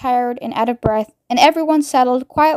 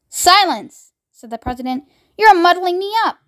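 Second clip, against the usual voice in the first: irritated president; 6 semitones higher than usual. Acted. President snaps.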